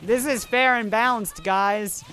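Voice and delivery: sarcastic. Real, not acted. Sarcastic complaint about character.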